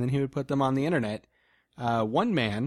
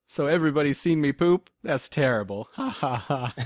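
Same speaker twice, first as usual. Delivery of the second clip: mock quote; 3 semitones higher, 3 dB louder than usual. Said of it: "he goes on to say".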